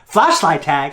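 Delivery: mock disbelieving echo; retold incredulous dad. Dad questioning son's excuse, mock incredulous.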